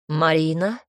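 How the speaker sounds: stern call from the kitchen; called from another room, strict. Acted. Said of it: "раздался из кухни строгий голос отца".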